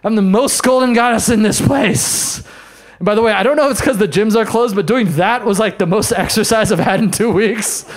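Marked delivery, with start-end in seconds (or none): 0.0-2.4 empowered mantra. Retold or imitated. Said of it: "I'm like".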